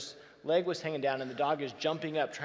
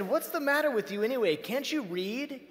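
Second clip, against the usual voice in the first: exasperated homeowner; 8 semitones higher, 3 dB louder than usual. Retold or imitated. Homeowner scolds the missionary.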